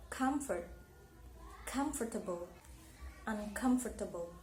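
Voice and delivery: "comfort, comfortable, uncomfortable", all stressed on COM; stress on root syllable. Shown as a demonstration. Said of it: "in the same place as the root".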